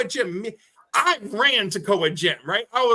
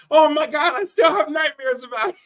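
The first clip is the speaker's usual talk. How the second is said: mock alarm; 6 semitones higher, 6 dB louder than usual. Seeing the scar again.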